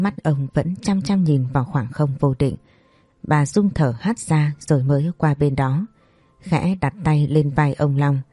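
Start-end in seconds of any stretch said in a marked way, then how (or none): none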